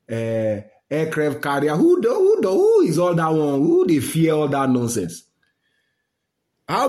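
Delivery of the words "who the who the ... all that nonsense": outraged disbelief. Real, not acted. Vlogger scoffing at America's aircraft carrier, outraged disbelief.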